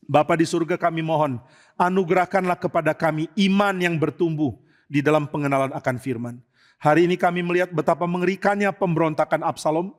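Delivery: calm, earnest prayer voice. Real, not acted. Preacher leads the congregation in closing prayer. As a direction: pray steadily to God.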